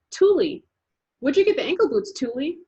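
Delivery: high, loud call. Acted. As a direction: shout the question across the street. Calling out across street.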